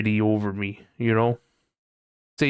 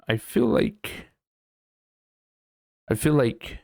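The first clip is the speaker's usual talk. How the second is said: ordinary talk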